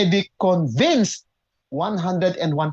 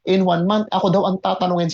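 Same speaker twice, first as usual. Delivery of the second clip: excited inner voice; 3 semitones higher than usual. Retold or imitated. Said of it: "Sabi ko".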